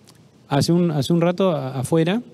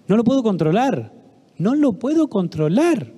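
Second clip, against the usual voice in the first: desperate mother; 5 semitones higher than usual. Retold or imitated. Mother tells the doctor she cannot control her son, pleading. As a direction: plead like a worn-out mother at her wits' end.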